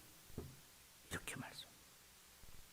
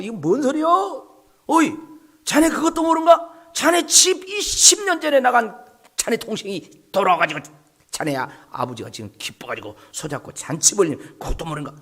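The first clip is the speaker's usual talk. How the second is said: villager gossip; 6 semitones higher, 7 dB louder than usual. Retold or imitated. Villager answering the elder son.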